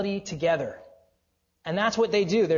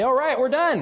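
high, loud, cheerful all-done; breezy confidence; 9 semitones higher, 7 dB louder than usual. Retold or imitated. Dad imagining the job done, mock breezy. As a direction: toss it off like it's finished.

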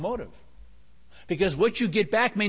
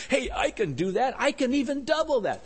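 mildly eager, higher-pitched offer; cheerful giver; 6 semitones higher than usual. Acted. Churchgoer delighted at another chance to give, acted cheerful eagerness. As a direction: let the pitch climb as if keen to give. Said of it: "That's a hilarious giver".

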